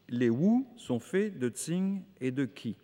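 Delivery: "Wu", "Tsing" and "Qi" said slowly with French sounds; French-accented Chinese terms. Real, not acted. Lecturer apologizing to Chinese listeners, careful French-accented "Wu", "Tsing", "Qi". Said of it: "je sais qu'il y en a dans la salle pour ma prononciation".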